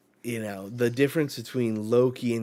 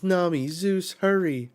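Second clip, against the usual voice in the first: high, louder urgent shout to hurry; urgent call; 8 semitones higher, 7 dB louder than usual. Retold or imitated. Robin urging Nami and Zeus, a high urgent call. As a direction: push them to hurry. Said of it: "And Robin says".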